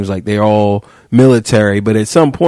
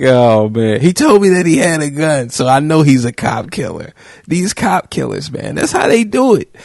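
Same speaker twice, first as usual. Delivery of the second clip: lightly voiced mocking officer, higher in spots; a hint of the paranoid cop, half-hearted; 4 semitones higher than usual. Host mocking officer's reasoning, lightly voiced mock cop. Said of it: "So she just revved up".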